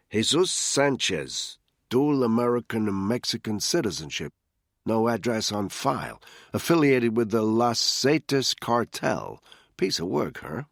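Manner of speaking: eager analyst reading a target file; Rav reading the file. Acted. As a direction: read the rap sheet like a fascinated junior agent. Rav reads the file aloud.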